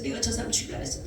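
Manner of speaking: praying alone in her room, softly whispered; whispered confession. Retold or imitated. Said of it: "울면서 기도해서".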